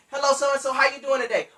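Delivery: upbeat, energetic small talk; excited phone greeting. Shown as a demonstration. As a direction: greet each other with eager energy. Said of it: "Both of y'all need to be excited".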